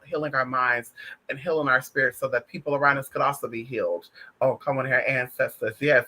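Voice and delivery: low-pitched spiritual invocation; prayer invocation. Acted.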